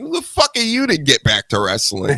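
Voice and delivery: retold angry snap. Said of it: "And I'm like".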